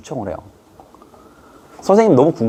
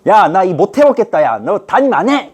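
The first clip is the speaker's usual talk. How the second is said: higher, louder mock exasperation; fed-up teacher; 6 semitones higher, 3 dB louder than usual. Teacher threatening to give up the class. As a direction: threaten to quit in mock anger. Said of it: "하는데".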